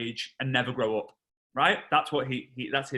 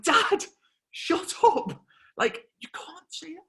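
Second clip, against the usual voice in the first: high, strained plea to dad; acted mortified son; embarrassed hushing; 13 semitones higher, slower than usual. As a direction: urgently shut him up.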